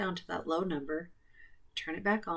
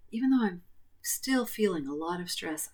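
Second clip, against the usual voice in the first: guided tapping script. Acted. Leads tapping setup statements.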